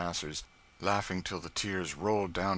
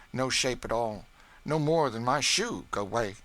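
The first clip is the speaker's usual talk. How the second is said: Aunt Chloe's voice, higher and louder, boasting; the cook scoffing at a spoiled cake, pitched up; Aunt Chloe proud of her cake; 7 semitones higher, 6 dB louder than usual. A narrator's reading. Cook to young master about her baking, proud and scornful.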